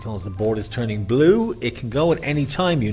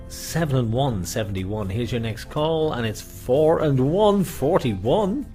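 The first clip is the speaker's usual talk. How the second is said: higher, slow number call; bingo caller; 4 semitones higher, 4 dB louder, slower than usual. Acted. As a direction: stretch out the numbers. Bingo calls on live stream.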